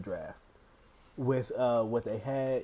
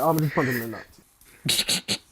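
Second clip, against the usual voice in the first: deadpan Kawhi Leonard; faster than usual. Retold or imitated. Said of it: "It looked like Kawhi Leonard".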